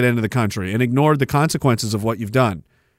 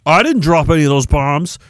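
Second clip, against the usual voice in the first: mock politician. Mocking politician's excuse.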